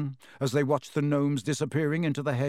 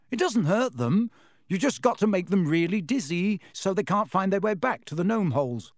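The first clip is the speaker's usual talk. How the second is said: reassuring; 5 semitones higher than usual. Acted. Ron reassuring Harry.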